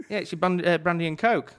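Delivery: put-on Scottish accent. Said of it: "me with my accent".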